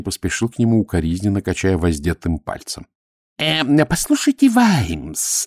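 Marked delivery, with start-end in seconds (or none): 3.4-5.5 hesitant opening. A narrator's reading. High priest accosts Vimes, then stops short, hesitant. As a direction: start higher, then falter. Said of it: "начал он и осёкся".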